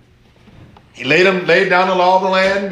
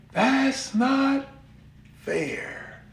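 ordinary talk

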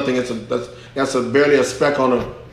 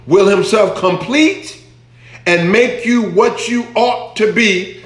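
raised, drawn-out preacher's reading; proclaimed scripture; 5 semitones higher, slower than usual. Real, not acted. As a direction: proclaim the verse slowly and high. Proclaims Amplified verse.

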